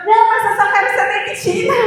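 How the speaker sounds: high, fast and loud, pushing back; insistent and loud. Retold or imitated. Telling the boss she just wants to be fired, insistent and loud. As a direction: keep insisting without giving reasons.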